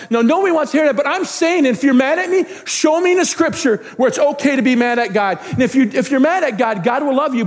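pressing, emphatic sermon voice; insistent preaching. Real, not acted. Pastor confronting those mad at God, insistent preaching. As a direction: press the point on the congregation.

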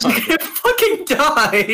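high, slow, real laughter through the words; laughing exclamation. Real, not acted. Player warning a reckless friend mid-game, laughing hard. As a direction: crack up while crying it out.

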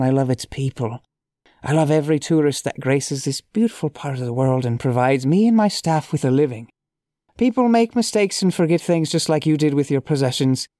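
reading aloud in a lightly put-on Irish accent; a hint of hammy, amateur Irish brogue; awful Irish accent. Shown as a demonstration. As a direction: try a little bad Irish accent. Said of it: "awful accent".

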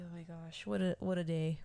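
breathy whisper, no voice at all; tired whisper. Retold or imitated. A worn-out mom whispering to herself at night. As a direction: whisper it like you're spent after a long day. Exhausted sigh at day's end.

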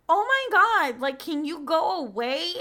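high, exasperated mock girl voice; imitating her fed-up friend. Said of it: "she's like".

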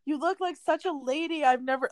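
high, gushing mother's voice, a touch tearful; mom gushing through tears. Retold or imitated. Mom gushing over the bride in her dress, high and tearful. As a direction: coo over the bride like a proud weepy mom. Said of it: "my mom was, like, crying".

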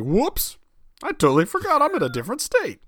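a light East Coast twang on a forgetful driver; mock East Coast accent. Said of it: "accent is just gonna bleed over".

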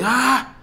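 1 grito imitado. Retold or imitated. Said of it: "empiezo como que a escuchar un grito".

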